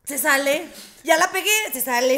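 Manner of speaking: playful retold complaint; mock nurse. Retold nurse telling the doctor the wrist is tiny, laughing.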